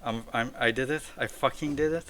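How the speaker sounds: rising stunned disbelief; can't believe the win; disbelieving joy. Real, not acted. Just beat the boss.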